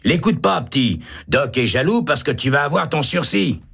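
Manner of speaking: reassuring inmate. A narrator's reading. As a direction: talk him out of fear.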